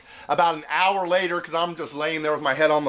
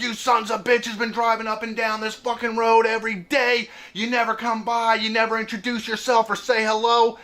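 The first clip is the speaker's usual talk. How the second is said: higher, monotone mock throat-device rant; imitated electrolarynx tirade; 5 semitones higher than usual. Old local berating new neighbour, mock buzzer-voice tirade. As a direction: imitate the old man laying into a stranger. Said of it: "starts laying into me even more".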